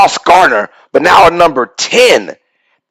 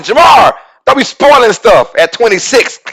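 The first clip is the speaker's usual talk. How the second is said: calling out; 6 semitones higher than usual. Real, not acted. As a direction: call him out across the room. Calling out a viewer in chat.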